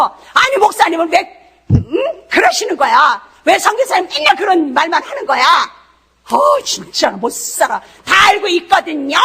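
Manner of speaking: mock complaint at the pastor; irritated churchgoer. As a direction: whine like a fed-up listener. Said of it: "이러는 거죠, 우리가". (목사님께 투덜대는 짜증 섞인 흉내)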